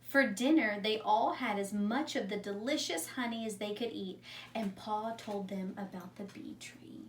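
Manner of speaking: calm read-aloud storytelling voice; story narration. A narrator's reading. Teacher reading a story to her class, calm narration. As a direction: read it like a story for young children. Teacher reads a picture book.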